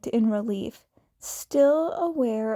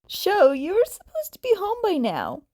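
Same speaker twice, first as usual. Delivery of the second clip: higher, fast texting friend voice; voiced friend; 7 semitones higher, 4 dB louder, faster than usual. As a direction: play the nagging friend, quick and high. Other character's text message voiced.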